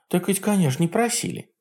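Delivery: high mocking old witch; Baba Yaga voice. A narrator's reading. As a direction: sneer like a jealous hag. Yaga speaks.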